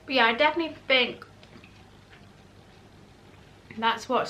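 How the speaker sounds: talking through a mouthful of food; words muffled round a bite; mouth full. Real, not acted. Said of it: "I hate talking with my mouth full".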